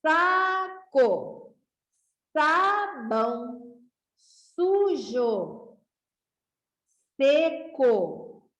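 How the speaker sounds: each word said clearly with a pause after it; teacher reading a word list aloud to the class. Shown as a demonstration. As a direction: read the list slowly to children. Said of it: "Vamos ler novamente comigo".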